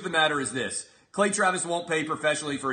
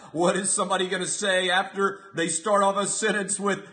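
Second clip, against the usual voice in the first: mock dread; 5 semitones higher than usual. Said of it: "as if I'm gonna be trembling".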